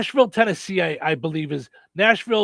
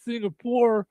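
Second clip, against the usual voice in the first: higher, lazy stoner drawl; 6 semitones higher, slower than usual. Pretend. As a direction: play it like a stoner. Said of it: "your best stoner voice".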